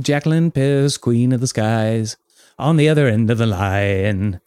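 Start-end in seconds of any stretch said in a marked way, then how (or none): none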